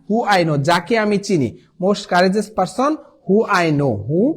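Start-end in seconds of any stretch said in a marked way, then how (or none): 1.8-4.3 slow model read. Shown as a demonstration. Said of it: "teacher models the answer sentence".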